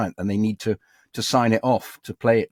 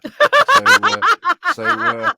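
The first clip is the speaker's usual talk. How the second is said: very high, loud falsetto; silly falsetto; 8 dB louder, much slower than usual. Acted. Actor still searching for a tree voice, silly falsetto. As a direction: squeal it absurdly high.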